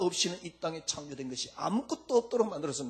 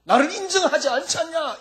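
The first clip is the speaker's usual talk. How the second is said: pleading Jesus; 3 semitones higher, 5 dB louder than usual. Acted. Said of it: "이럴 겁니다, 아마".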